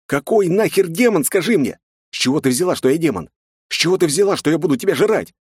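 high, loud outraged question; indignant yell. A narrator's reading. Young man yelling at the girl who calls him a demon. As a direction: demand it, fed up. Hero arguing furiously.

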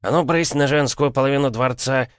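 high, pompous dismissal; self-important. A narrator's reading. Puffed-up prince ordering strange women out, self-important. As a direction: puff up and shoo them off, drawing out the questions. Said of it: "раздулся от важности Маков".

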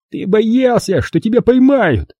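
high, spiteful jab; jeering Rob. A narrator's reading. Rob accusing John, a high spiteful jab. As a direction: hit back with spite.

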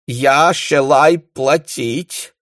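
put-on high, very slow, pitiful accented plea; plaintive. A narrator's reading. The baron pitifully offering to pay in a German accent. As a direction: whine it pitifully. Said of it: "жалостно сказал барон".

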